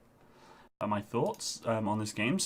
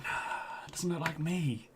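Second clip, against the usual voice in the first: a breathy whisper, half to himself; whispered thought; 4 semitones higher, 7 dB quieter, slower than usual. Retold or imitated. Gamer whispers his old dismissive thought, voiceless whisper. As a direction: whisper it like a private doubt.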